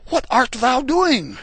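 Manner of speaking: high, loud archangel's call; retold yell. Archangel Michael stopping Abraham's sacrifice, loud yelling call. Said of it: "and he yells".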